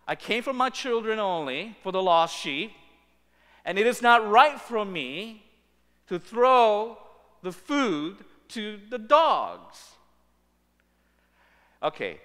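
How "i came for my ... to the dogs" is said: loud stern refusal. Acted. Jesus to the kneeling woman, loud and stern. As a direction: press each word down on her. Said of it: "and Jesus says to you".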